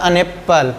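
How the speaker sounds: an said as a short "un" before apple; normal article an. Shown as a demonstration. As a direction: link a short "un" onto apple. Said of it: "उच्चारण ज़्यादा अन करने".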